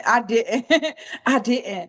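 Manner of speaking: chuckling through the denial; laughing. Real, not acted. Trader laughing along with the listener, amused insistence.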